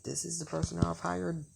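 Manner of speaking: high-pitched incredulous question; retold disbelief, voice lifted throughout. Retold disbelief at who was hired.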